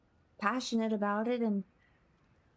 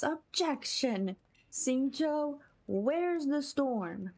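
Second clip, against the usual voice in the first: slow, higher dramatic objection; mock courtroom objection; 5 semitones higher, much slower than usual. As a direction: call it out like a lawyer.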